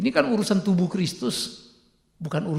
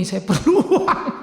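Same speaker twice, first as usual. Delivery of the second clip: mock pleading; 7 semitones higher, much slower than usual. Retold woman asking for money.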